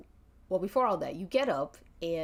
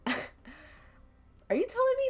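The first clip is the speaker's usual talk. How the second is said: slow, light and teasing, raised pitch; 8 semitones higher, much slower than usual. Retold or imitated. Player to Jon Moxley, a teasing light question. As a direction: ask it lightly, half teasing. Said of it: "in a light tone".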